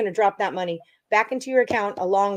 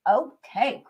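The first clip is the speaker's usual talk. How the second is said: whispered okay; 3 semitones higher than usual. Real, not acted. Reading a viewer's pick.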